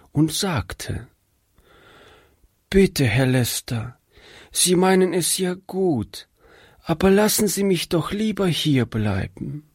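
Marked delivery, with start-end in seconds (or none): 2.7-9.7 high, anxious begging voice; frightened plea. A narrator's reading. Sick girl pleads with the preacher, frightened. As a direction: beg not to be sent away. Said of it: "Doch plötzlich erschrak sie".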